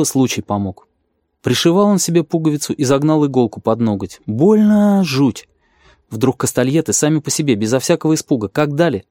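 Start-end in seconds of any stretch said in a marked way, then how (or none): 4.3-5.5 high, very slow cry of pain. A narrator's reading. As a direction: stretch it out like it really hurts. Needle under fingernail.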